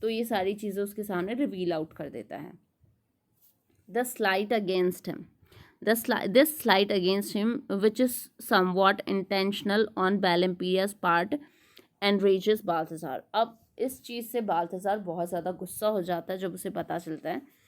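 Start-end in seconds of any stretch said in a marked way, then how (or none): 3.9-13.2 slow, measured read-aloud of study notes; deliberate lecture-room reading. Acted. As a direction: read the text out slowly and deliberately. Reads English summary aloud.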